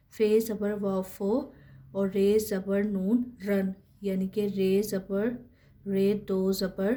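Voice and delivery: each letter and vowel mark named slowly, then the syllable; slow spelling drill. Shown as a demonstration. Teacher spells out syllables slowly for students. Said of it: "teacher spelling out letters".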